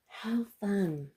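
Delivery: delighted little whisper. Real, not acted. Happy over her cookies.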